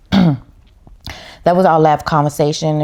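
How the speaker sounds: getting emotional. Real, not acted. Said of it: "I'm about to get emotional".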